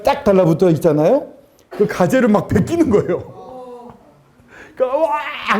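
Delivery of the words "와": high mock scream of pain; retold scream. Child as the stuck gauze is peeled off, retold scream. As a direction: scream in pain without full volume. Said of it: "막 소리 지르고".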